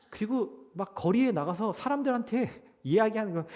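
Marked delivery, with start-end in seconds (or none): none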